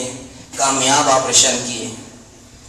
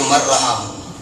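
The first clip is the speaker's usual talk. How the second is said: mild mock groan of a grumpy patient; understated, sour voice for a sick man; sick man snapping back at his visitor, mildly mock-grumpy; grumpy sick friend. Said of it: "اب حضرت بڑے غصے میں تھے".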